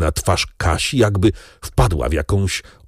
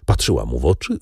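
usual speaking voice

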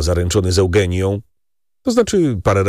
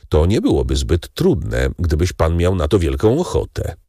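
Monte Cristo, cool count; 2 semitones lower than usual. Acted. Count suggesting calmly.

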